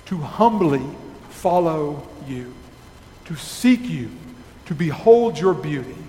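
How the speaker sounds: measured, reverent prayer voice; closing prayer. Acted. Pastor praying on behalf of the congregation, reverent. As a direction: pray over the congregation, steady and earnest.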